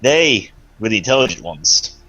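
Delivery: slow, measured taunting voice; menacing villain. Acted. Threatening the fleeing enemies, slow and smug. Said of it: "I'm like".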